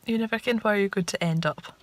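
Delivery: broad Shetland dialect; Shetland accent. Real, not acted. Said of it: "I'm back in Shetland dialect now".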